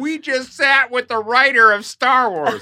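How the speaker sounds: high, loud, slow delighted gush through laughter; thrilled bragging family. Retold or imitated. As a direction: crow about meeting a star. Family bragging about the encounter.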